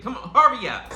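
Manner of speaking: laughing, high New York voice urging him on; a loud, laughing New York hurry-up. Retold or imitated. Impatient viewer yelling at the wrestler in a New York voice. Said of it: "In my New York voice".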